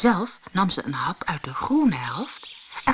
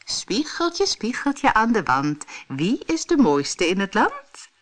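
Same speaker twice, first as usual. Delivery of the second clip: higher, rising questioning chant; queen asking the mirror; 5 semitones higher than usual. Acted. Vain queen asks her mirror, lightly raised questioning voice. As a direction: lift the rhyme up like a ritual question. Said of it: "Ze ging voor de spiegel staan en vroeg".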